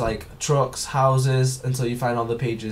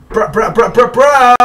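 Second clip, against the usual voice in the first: exasperated bruh; 9 semitones higher, 10 dB louder than usual. Real, not acted.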